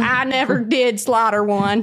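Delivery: mock country Southern accent; country gal. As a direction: answer in a playful country twang. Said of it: "not a country gal".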